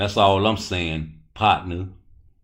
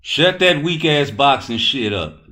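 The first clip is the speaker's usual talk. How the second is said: loud, slow, drawn-out scolding; scolding shout; 7 semitones higher, 7 dB louder than usual. Real, not acted. Streamer shutting down a troll in chat, loud scolding.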